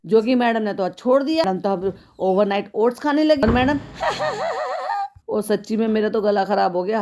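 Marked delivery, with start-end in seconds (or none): 3.8-5.1 squealing, breathless fit of laughter; helpless high laugh. Real, not acted. Vlogger cracking up at madam's video, high squealing laugh. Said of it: "हंसते हंसते निकाल भी नहीं पाई मैं आवाज".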